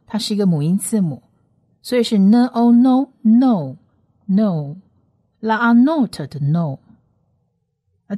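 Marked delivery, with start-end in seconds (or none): 2.2-4.8 louder "呢", "O", joined into a long "no"; long vowel blend. Shown as a demonstration. Teacher builds the syllable with long vowel O, loud drawn-out "no". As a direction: sound out "呢O", then repeat "no" with a long O, firmly. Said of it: "是长母音O".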